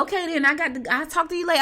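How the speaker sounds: high, loud put-on old lady voice; little old lady. Mom cutting short a call with friends, little old lady voice. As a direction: mimic mom faking an old lady to get off the phone. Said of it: "She put the little old lady voice on".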